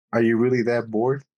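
hiccuping mid-sentence; with hiccups. Real, not acted. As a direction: talk through small hiccups. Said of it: "excuse my hiccups".

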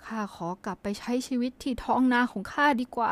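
lightly played storybook mouse speaking up; country mouse. Country mouse says it would rather go home, lightly acted. Reads the mouse's line in the fable.

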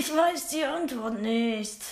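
slow, strangely voiced answer; odd put-on voice. Shy pupil answering the teacher in a strange voice. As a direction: say it slowly in a weird voice. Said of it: "Warum redest du denn so komisch?".

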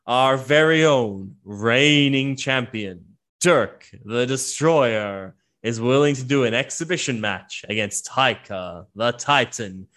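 announcer hyping the exhibition match to the crowd; ringside announcer. Acted. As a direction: sell the fight like a ring announcer. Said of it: "and he's like".

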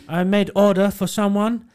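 lightly voiced eager shop worker. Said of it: "He went".

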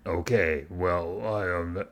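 lightly voiced hesitant tough guy; a half-hearted try at the character; attempted motorcycle guy. Trying to show a friend the motorcycle-guy voice: half-hearted imitation. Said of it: "can't even do it".

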